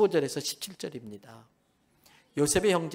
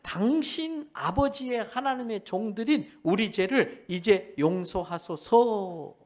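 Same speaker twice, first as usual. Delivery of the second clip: slow pleading plea; 3 semitones higher, slower than usual. Acted. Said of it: "요럴 때만 기가 막히게 울거먹어요".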